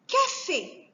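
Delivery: "Café" measured out as Ca-fé; two distinct beats in "Café"; split into syllables. Shown as a demonstration. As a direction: mark both syllables of "Café". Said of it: "couper les mots en syllabes".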